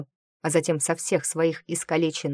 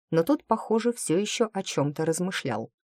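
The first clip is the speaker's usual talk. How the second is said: ordinary delivery, nothing marked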